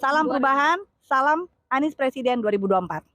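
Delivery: loud, ringing campaign salute; slogan call. Real, not acted. Supporter closing a speech with a campaign salute, loud and rousing. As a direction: proclaim the slogan to the crowd.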